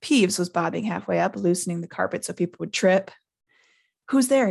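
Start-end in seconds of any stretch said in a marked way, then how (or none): 4.1-4.5 high, loud startled call; sudden challenge. A narrator's reading. Peeves hears someone climbing the stairs, calling suddenly. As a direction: challenge the unseen abruptly. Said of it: "he said suddenly".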